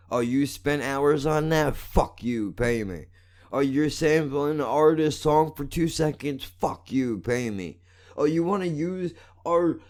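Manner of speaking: high, bored and dismissive brush-off; mocking YouTube voice. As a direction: sneer it like a lazy corporation refusing you. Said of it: "for the motherfuckers to go".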